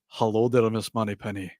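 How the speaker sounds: a hint of suave secret agent; Sean Connery. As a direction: lightly imitate a Scottish James Bond. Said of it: "and he go".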